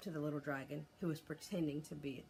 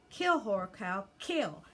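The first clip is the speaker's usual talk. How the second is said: urging command; 3 semitones higher, 6 dB louder, slower than usual. Acted. Boy urging his bird to attack.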